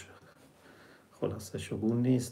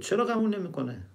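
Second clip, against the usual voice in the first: much higher, curious question; king asking, surprised; 9 semitones higher, faster than usual. Retold or imitated. Nader Shah asking the boy why his mother won't believe, raised high. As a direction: ask it high, puzzled.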